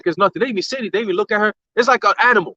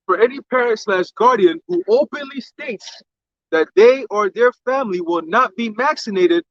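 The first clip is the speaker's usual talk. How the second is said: slow, deliberate read of an official notice; reading aloud; slower than usual. Real, not acted. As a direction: read it out word by word, slowly. Reads a statement aloud.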